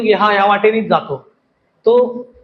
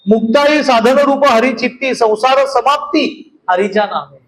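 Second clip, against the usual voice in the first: slow, measured abhang recital; devotional verse recitation; slower than usual. Acted. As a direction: recite the verse slowly, drawing out each phrase.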